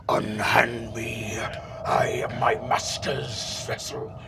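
slow ghostly whisper; eerie skull whisper. Acted. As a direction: rasp like a cursed skull. Possessed skull speaking.

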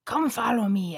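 normal talking voice

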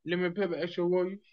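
badly faked Chinese accent. Host asked for one, badly faked Chinese accent. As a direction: crude put-on Chinese accent, order-taking phrase. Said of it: "all right, Chinese one".

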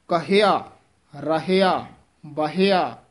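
ਕਹਿਆ, ਰਹਿਆ, ਬਹਿਆ with the ਹ fully sounded; correct pronunciation. Shown as a demonstration. Teacher drills correct ਕਹਿਆ for students. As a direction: stress ਕਹਿਆ, not ਕਿਹਾ. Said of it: "ਕਹਿਆ ਬੋਲਣਾ ਹੈ".

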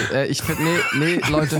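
laughing through the words; fighting back giggles; stifled giggles. Real, not acted. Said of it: "hört auf zu lachen".

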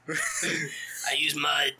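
very slow breathy whisper; hermit whisper. Pretend. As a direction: confide it like a swamp hermit. Worm as swamp hermit.

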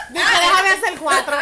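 put-on laughing through a slow drunk's boast; slow mock drunk plea. Imitating a tipsy friend at a party, slow and laughing.

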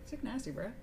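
lightly voiced frat boy slang; frat bro. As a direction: toss it off like a middle school bro. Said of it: "I just sound like a frat boy".

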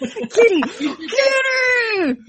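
put-on demanding toddler. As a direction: whine it like a little girl who wants her cat video. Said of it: "She's, like, so mad".

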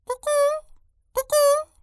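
high whistled cuckoo birdcall; nightingale call. Acted. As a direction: imitate a night bird's two-note call, very high. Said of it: "the nightingale's musical call".

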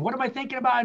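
anxious mental scramble; frantic overthinking. Shown as a demonstration. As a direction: spin your wheels trying to outthink it. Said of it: "No, here's the key".

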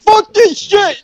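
slow, very high drawn-out yell; hammed-up war cry, stretched out; stunt battle cry. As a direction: scream it like launching into a stunt.

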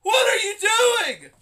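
high-pitched panicked yelling; mock horrified shouting, way over the top; overacted freak-out. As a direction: freak out at the top of your voice, hammed up. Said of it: "freaking out like that. That is some overacting".

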